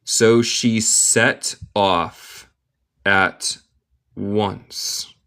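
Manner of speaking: "So she set off at once" slowly, word by word; slow model reading. Shown as a demonstration. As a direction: pause before "at" and before "once". Teacher models slowly, then reads normally.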